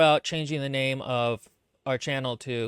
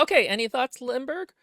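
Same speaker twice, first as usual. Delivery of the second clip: mock host prompt; 10 semitones higher, 3 dB louder than usual. Shown as a demonstration. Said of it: "I'll say".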